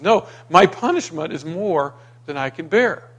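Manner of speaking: put-on mildly protesting, like a child refusing blame; lightly voiced complaint that dodges the blame; childish refusal. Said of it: "Doesn't that sound like a child".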